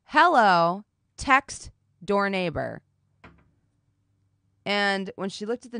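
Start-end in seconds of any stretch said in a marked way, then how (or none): 0.1-2.8 reading the text. Retold or imitated. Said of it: "And the person said".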